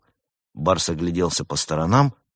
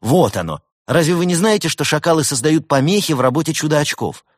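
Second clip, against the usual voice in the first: raised, loud, triumphant explaining; exultant; 10 semitones higher, 7 dB louder than usual. A narrator's reading. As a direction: crow over a solved mystery. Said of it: "возликовал техник".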